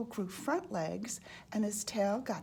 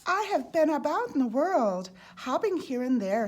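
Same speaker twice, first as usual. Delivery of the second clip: boastful; 4 semitones higher, 6 dB louder than usual. A narrator's reading. Frog boasts of travels.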